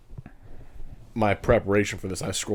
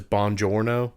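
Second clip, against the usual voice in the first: lightly mocked American-accented Italian; clumsy Italian with an American accent; Brad Pitt's bad Italian; slower than usual. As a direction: say it like an American badly faking Italian. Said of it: "Brad Pitt says".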